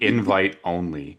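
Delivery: "invite only" said slowly, each word weighted; stress on invite only. Shown as a demonstration. Host stressing the guest list to the audience, slow and weighted. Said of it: "I stress that word".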